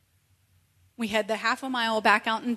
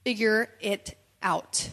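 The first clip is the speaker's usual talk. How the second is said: slow blunt advice; slower than usual. Retold or imitated. Lady leans in, blunt advice.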